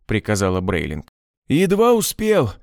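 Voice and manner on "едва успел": запыхавшийся возглас. A narrator's reading. Дигерин выскакивает из машины.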